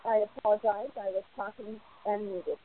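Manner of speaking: distant and faint; speaking from across the room; far from mic. Real, not acted. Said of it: "You sound like you're far away from a mic".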